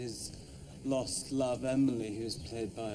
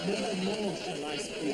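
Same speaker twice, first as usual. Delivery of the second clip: dramatic stage delivery; 7 semitones higher than usual. Acted. Actor performing a dramatic line.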